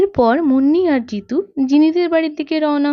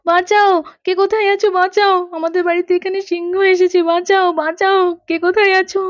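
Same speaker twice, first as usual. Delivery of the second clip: put-on trapped mother begging anyone to save her and her child; calling for help; 3 semitones higher than usual. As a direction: shout out to the neighbours in terror.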